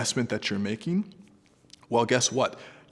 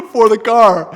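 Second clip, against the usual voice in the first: laughing; 12 semitones higher, 16 dB louder, slower than usual. Real, not acted. Laughs retelling friend's request.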